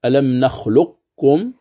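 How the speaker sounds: ألم نخلقكم slowly, qaf keeping its elevation into kaf; recitation demo, second way. Shown as a demonstration. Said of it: "وجه اختيار أبي محمد مكي".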